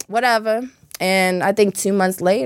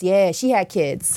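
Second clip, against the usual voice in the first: hushed aside; 3 semitones lower, slower than usual. Real, not acted. Somber aside about dead woman.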